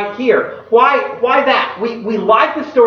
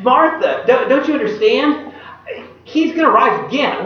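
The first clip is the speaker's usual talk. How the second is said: exasperated; 4 semitones higher than usual. Retold or imitated. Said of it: "So he's like".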